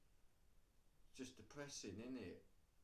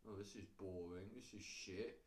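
bored; 3 semitones lower, 3 dB quieter than usual. Acted. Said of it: "when it comes to the gifts, they're like".

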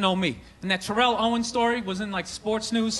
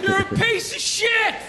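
put-on drunk heckler; 8 semitones higher, slower than usual. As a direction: yell from the stands. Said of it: "you're like".

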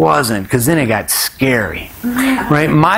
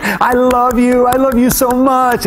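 high, drawn-out adoring cry; gushing, high-pitched mock wail; ecstatic reveler; 11 semitones higher, slower than usual. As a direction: imitate a woman overcome with euphoria. Acts woman jumping at the burn.

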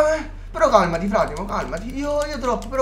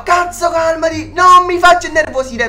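hammed-up shout, louder and higher; mock angry; 3 semitones higher, 4 dB louder than usual. Shouting at Thomas to calm down while losing it. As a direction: fake a furious outburst. Pretending to lose temper at friend.

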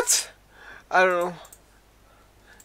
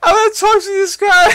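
exasperated outburst; 6 semitones higher, 6 dB louder than usual. Real, not acted. Laughing frustration continues.

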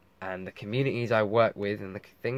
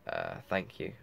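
blocked nose; 6 dB quieter than usual. Real, not acted. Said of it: "I'm sorry my nose is blocked".

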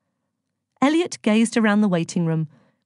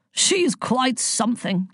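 slow, higher, amused relish; amused, laughing; 5 semitones higher, slower than usual. A narrator's reading. Zeus on the woman who rescued Elliot, amused. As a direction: say it with a touch of a laugh. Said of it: "laughed Zeus".

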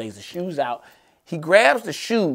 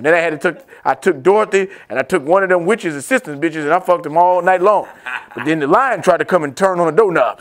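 loud, raised boastful dad voice; mock wise old father; bragging dad; 3 semitones higher, 4 dB louder than usual. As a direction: brag to your son about the old days. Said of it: "Now, look".

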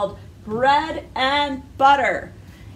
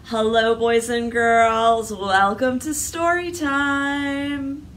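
nice. Shown as a demonstration. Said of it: "Let's say hello as nice as we can".

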